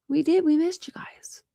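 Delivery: unvoiced whisper. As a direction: breathe it as a secret. Whispering as Nightbot.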